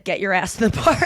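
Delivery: laughing half-shout of the misheard line; mock misheard shout. Dad mishearing the gate kid, half-shouted and laughing. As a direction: blurt it out through a laugh. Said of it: "my dad thought he said".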